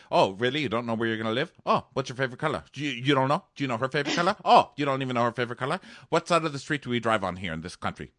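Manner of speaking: rapid-fire questions, lightly acted; mock interrogation. Sister grilling Nick about life plans, mock interrogation.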